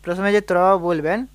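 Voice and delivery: slow, careful teaching delivery; slow explanation. Shown as a demonstration. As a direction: say it slowly, step by step. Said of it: "আসুন এবার ধীরে ধীরে করে বলে দিচ্ছি".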